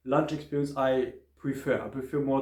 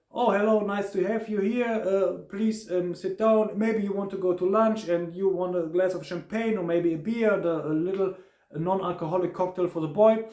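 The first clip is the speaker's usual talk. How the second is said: higher, eager host's welcome; friendly waiter; 4 semitones higher than usual. Retold or imitated. Waiter offering champagne and beer to arriving guests, raised and friendly. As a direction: warmly usher the guests to sit down.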